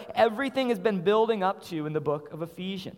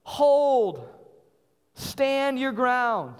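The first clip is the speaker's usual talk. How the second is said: higher, drawn-out battle cry with falling tails; commander's shout; 4 semitones higher, much slower than usual. Acted. Mighty commander shouting to troops on the field, commanding shout. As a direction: call out to troops holding the line. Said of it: "mighty commander over you shouting".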